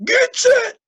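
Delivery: slow, loud, high bellow; bellowing coach. A narrator's reading. Coach starting the swim race, bellowing. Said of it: "bellowed the coach".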